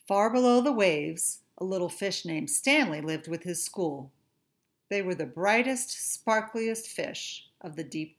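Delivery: put-on lively read-aloud to children; story narration. A narrator's reading. Reads a picture book aloud.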